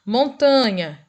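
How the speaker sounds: "Montanha" drawn out slowly, stressed on TA; penultimate-syllable stress. Shown as a demonstration. Teacher giving a paroxytone example, slow "Montanha" stressed on TA. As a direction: stretch the tan of "Montanha". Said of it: "penúltima sílaba".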